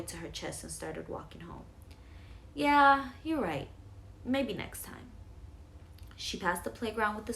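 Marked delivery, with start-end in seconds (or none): 2.5-5.1 higher, bright toy voice; voicing a stuffed animal; toy's voice. Girl voices her toy Momo.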